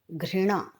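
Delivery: घृणा said slowly, with the ऋ sound; careful ghrina. Shown as a demonstration. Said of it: "र पदेन नहीं आता है".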